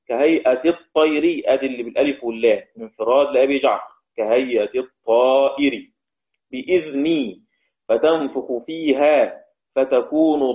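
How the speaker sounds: measured chanted tajwid reading; Quran recitation. Shown as a demonstration.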